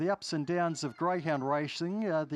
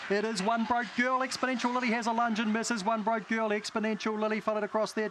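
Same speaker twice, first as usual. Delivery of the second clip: race call; 3 semitones higher than usual. Acted. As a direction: build the call toward the line. Live race call, rising to finish.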